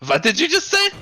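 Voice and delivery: high, loud indignant question; loud, rising outraged demand; indignant outburst. Acted. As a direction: shoot the pitch way up, affronted. Prosecutor reacts to being insulted.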